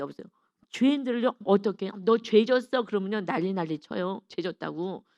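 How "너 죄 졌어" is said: louder, curt accusing call; blunt accusation. Retold or imitated. Believer accusing a sinner, louder blunt charge. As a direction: hurl the charge at them, louder.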